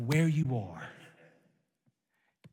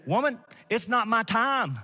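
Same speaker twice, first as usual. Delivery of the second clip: higher-pitched, pointed retort; acted-out reproof, pitched up then falling; Jesus; 5 semitones higher than usual. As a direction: push back with a raised pitch. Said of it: "that's the way I said it".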